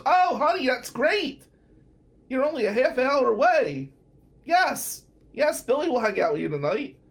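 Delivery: high sweet aunt voice; imitating Aunt Mary. Aunt cheerfully volunteering him for the date, high and sweet. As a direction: gush like a pleased aunt. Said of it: "And Aunt Mary goes".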